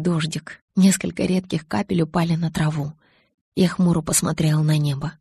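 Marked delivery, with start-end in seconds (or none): none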